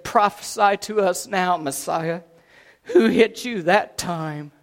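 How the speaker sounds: mildly taunting tormentor; understated mocking challenge; jeering. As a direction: taunt with a slow, drawn-out question. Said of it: "they jeered".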